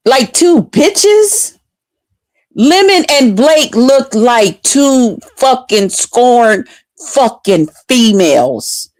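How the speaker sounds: slow, drawn-out scornful mockery; slow sneering put-down; mocking contempt. Real, not acted. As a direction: stretch every word with disdain.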